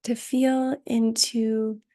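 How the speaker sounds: calm, unhurried meditation voice with long pauses; guided meditation. Acted. Teacher settling students into Yoga Nidra, calm guided meditation. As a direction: guide them gently into rest, leaving space between phrases.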